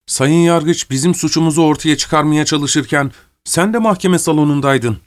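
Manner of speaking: a touch of earnest appeal; insistent prisoner. Acted. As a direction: reason with your guard insistently.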